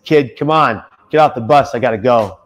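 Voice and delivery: put-on a driver who just wants the kid off his bus; impatient bus driver. Bus driver ordering the crying kid off the bus, loud and impatient.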